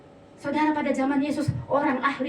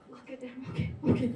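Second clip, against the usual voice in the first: meek giving in; 8 dB quieter than usual. Retold or imitated. Reluctant surrender to God.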